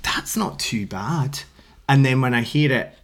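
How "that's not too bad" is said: whispered thought. Retold or imitated.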